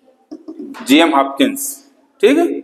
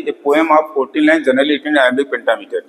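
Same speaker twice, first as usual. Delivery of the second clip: slow dictation; 3 semitones lower, much slower than usual. Shown as a demonstration. Teacher dictating a definition.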